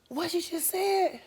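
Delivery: high, slow, disbelieving; mock stunned question; shocked question. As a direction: sister stunned by what she heard. Sister reacting in shock.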